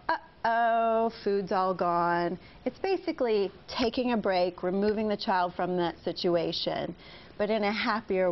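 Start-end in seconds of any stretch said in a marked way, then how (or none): 0.1-2.4 a bright uh-oh, then slow; light sing-song uh-oh. Shown as a demonstration. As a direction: chirp the uh-oh, then drag the rest. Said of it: "so you're not losing your cool".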